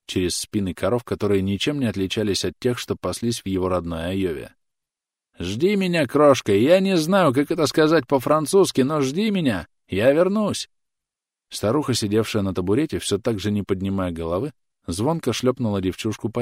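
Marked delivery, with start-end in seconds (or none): 5.4-10.7 high, loud yelling call; yelling across field. A narrator's reading. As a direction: keep shouting to her across the field. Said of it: "орал Бурнакер".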